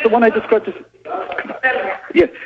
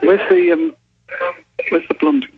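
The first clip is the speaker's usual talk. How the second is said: calling out, searching; 8 semitones higher than usual. Real, not acted. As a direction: call across the station for the blonde. Calling out in police station.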